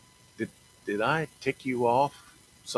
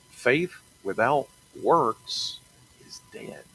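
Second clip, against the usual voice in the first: dramatic whisper; 4 semitones higher, slower than usual. Acted. Preacher's dramatic scripture line.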